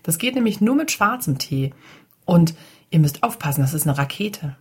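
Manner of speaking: put-on loud child. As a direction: call it out proudly to the table. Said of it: "Kaki sagt ganz laut". (Kaki verkündet es den Kindern etwas lauter)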